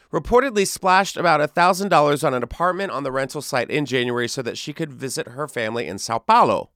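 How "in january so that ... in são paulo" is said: mock Brazilian accent. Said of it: "That was a good accent".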